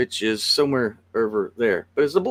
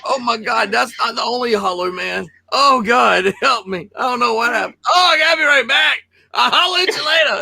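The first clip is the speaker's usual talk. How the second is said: much higher, shouting panicked pleas; frantic friend; 9 semitones higher, 3 dB louder than usual. Retold or imitated. A friend back from the bathroom pleading in a high, frantic shout. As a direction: play a desperate man with a bad stomach. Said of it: "came back going".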